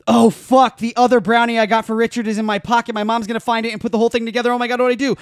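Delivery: loud, high panicked rush. Retold or imitated. Scene: stoned teen fearing his mom finds the brownie, loud panic. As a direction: blurt it out in a frantic panic.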